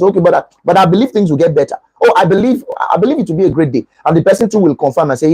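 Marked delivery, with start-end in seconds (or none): 0.0-3.8 hopeful. Shown as a demonstration. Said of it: "End it with something positive".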